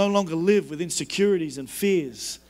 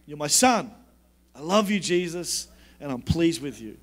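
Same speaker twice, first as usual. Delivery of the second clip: tender God voice; 5 semitones lower than usual. Retold or imitated. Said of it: "God firstly affirms him".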